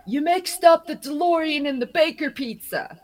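overheard pizza guy. Retold or imitated. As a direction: toss it off like a worker calling across the shop.

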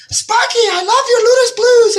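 high, hammed-up Japanese accent; bad Japanese accent. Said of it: "I'm gonna do a bad Japanese accent".

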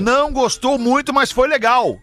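imitating her line. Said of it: "A frase dela".

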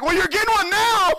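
high, loud comic threat; mock stern. Father telling crying son he gets a spanking, mock stern. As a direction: deliver the punchline as a fake threat.

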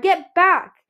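loud high warning shout; alarmed cry. A narrator's reading. Mother shouting a warning to her son. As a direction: yell it to stop him. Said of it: "Ruby cried".

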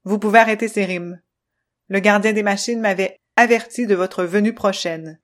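loud, clipped machine voice, stern; choppy robot voice. Acted. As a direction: stiff robot speaking in jerks. Controllo's voice.

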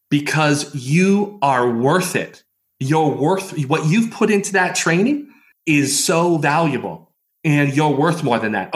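lightly put-on British accent, emphatic; a hint of British accent, driving the point home. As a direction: imitate an English friend's insistent British accent. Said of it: "speaking with me in that British accent".

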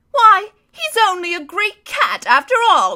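high, loud jeering monster voice; mock the fallen lion; sneering creature. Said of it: "cried one".

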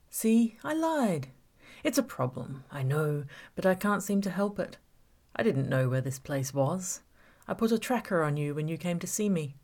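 menacing villain toying with Gabby; villain Sean taunting. Acted. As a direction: savour every word of the trap. Villain Sean's taunting speech.

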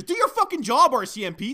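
angry shout. Real, not acted. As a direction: bark the order in real anger. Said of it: "it gets me fucking angry".

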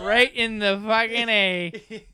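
slow, laughing through the words. Real, not acted. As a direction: crack up while saying it. Laughing through crude joke.

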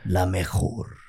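low, slow radio announcer; radio host voice. Retold or imitated. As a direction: drag it out like a sultry DJ. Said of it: "Ciento cuatro punto tres".

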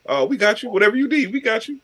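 mock eager promise. Speaker mocks America offering aid to allies, eagerly obliging. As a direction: play the over-obliging helper, voice rising.

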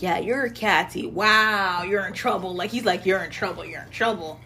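low, understated teasing; taunting brother. Retold or imitated.

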